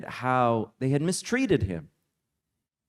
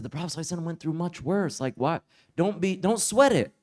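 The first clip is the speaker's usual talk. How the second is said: relaxed reassurance; 3 semitones higher, faster than usual. Retold or imitated. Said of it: "not bothered in the least".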